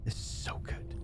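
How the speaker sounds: breathy whisper of delight. Real, not acted. Savoring the game, whispered to viewers. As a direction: whisper it like a secret pleasure.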